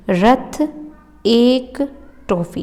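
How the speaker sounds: slow dictation with pauses between words; slow, spaced-out repeat. Shown as a demonstration. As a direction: say it word by word for memorising. Repeats mnemonic slowly to memorise.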